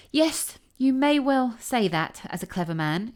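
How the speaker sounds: a hint of a fawning mouse exclaiming; exclaiming field mouse. A narrator's reading. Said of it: "exclaimed the field mouse".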